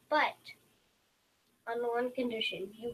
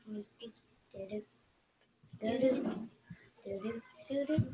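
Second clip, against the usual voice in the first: sneaky humming; slower than usual. Pretend. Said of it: "sneak over there".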